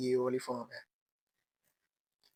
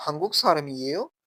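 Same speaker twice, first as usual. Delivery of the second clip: "हंगुक सारम ये हो?" with the pitch rising on the last syllable; rising question tune; 5 dB louder than usual. Shown as a demonstration. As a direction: ask it as a Korean question, ending up. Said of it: "अगर किसी सवाल करेंगे तो आप इस तरह कहेंगे".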